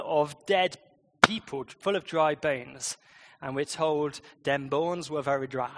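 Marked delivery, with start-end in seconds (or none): 4.4-5.7 put-on Jamaican accent. Shown as a demonstration. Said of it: "best read in a Jamaican accent".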